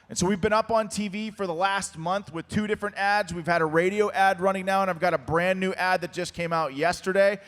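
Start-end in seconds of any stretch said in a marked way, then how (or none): 3.3-7.4 losing his voice, hoarse and strained; hoarse from a fifteen-hour day. Real, not acted. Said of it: "I'm losing my voice right now".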